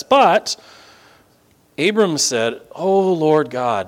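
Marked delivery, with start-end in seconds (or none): 2.7-3.9 slow, drawn-out "Oh, Lord God"; understated awe; humble address. Acted. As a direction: address God with reverence, unhurried. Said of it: "there's that great humility".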